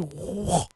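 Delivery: breathy imitated whoosh of a punch; punch sound effect. Storyteller showing how he knocked Butterfree down, punch sound effect. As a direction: voice the swing of a punch.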